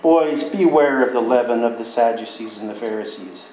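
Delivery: calm warning. Retold or imitated. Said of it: "he looks at them and he says".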